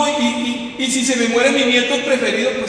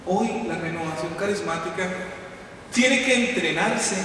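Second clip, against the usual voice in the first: ordinary delivery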